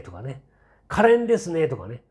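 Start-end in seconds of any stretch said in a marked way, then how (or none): 0.9-1.7 high-pitched mock adoration; mock gushing praise. Parroting fawning press about the princess, mock gushing. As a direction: coo it in exaggerated flattery, pitched well up. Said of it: "全部アゲアゲ記事".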